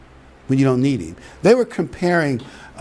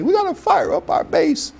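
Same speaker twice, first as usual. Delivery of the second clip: a high, mocking politician voice. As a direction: lightly ham up a rally slogan.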